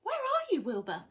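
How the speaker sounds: high, loud searching call. Acted. Winnie searches for Wilbur, a high loud call. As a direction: call for the missing cat. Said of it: "she called".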